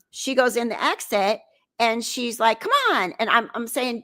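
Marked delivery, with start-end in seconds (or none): 2.6-3.1 higher-pitched mock urging; beckoning call, pitched up; retold urging. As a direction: imitate a friend calling you along. Friend urging her through exit.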